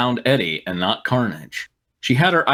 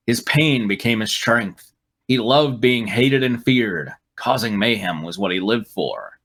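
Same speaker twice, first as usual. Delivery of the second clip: mock dramatic; 3 semitones lower than usual. Dramatic slow read of villain backstory.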